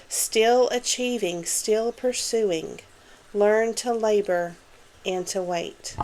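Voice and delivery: slow, measured poetry reading with firm emphasis; poem recitation. Acted. Reading an encouraging poem to viewers, slow emphatic recitation. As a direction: read it out as verse, drawing out the line endings. Reads A Psalm of Life aloud.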